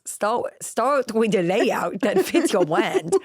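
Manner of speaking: lightly voiced Wayne's World dude, R as W. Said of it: "it's that guy from Wayne's World".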